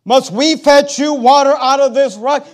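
slow, loud, scornful quote; loud slow sneer; mocking Moses. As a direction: drag it out like a boast. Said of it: "Moses quote repeated".

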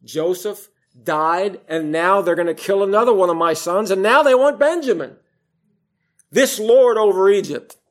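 mock despair rising to a loud, high protest; distraught Jacob. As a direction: play an aggrieved father working himself up. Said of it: "which in his mind were terrible".

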